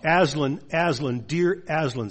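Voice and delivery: loud, tearful cry of a name; a girl's loud, mock-sobbing reunion cry; sobbing Lucy. A narrator's reading. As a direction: call out to the lion half in tears. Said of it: "sobbed Lucy".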